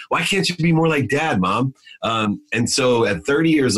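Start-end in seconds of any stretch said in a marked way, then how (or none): 0.1-1.7 put-on high, innocent kid's question; little boy asking his mom; childish plea. Son naively asking his struggling mom, in a high kid's voice.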